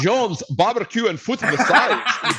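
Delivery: high, hammed-up Russian vendor voice with laughter; playing a Russian hawker laughing through it; mock Russian accent. Mocking Russians hawking barbecue, in a high put-on Russian accent. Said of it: "They over in Russia like".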